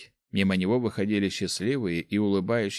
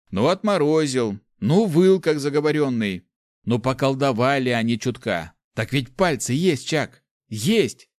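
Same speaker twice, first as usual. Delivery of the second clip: higher, louder pushy peasant; heated Nick; 5 semitones higher, 5 dB louder than usual. Acted. Nick arguing with Chak, heated and loud. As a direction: hammer the point home. Nick hammering his point.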